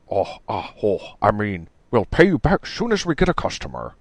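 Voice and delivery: stammering, quickly correcting himself; flustered young man. Acted. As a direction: backpedal nervously. Bowman's voice, read aloud.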